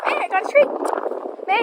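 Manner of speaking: loud call across a field. Real, not acted. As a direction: call her from far away. Calling horse across pasture.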